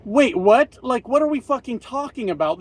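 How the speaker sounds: baffled double take; incredulous. Real, not acted. Mock disbelief at the idea.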